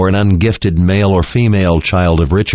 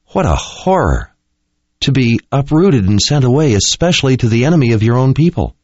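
higher, lighter woman's voice; 6 semitones higher than usual. A narrator's reading. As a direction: voice the young woman, shocked. Kahlan speaking, voiced by narrator.

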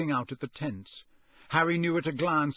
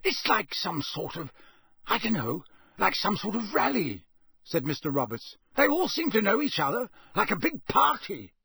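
put-on a wary old Scots countryman; rustic campsite owner; 5 semitones higher than usual. Campsite owner voiced by narrator.

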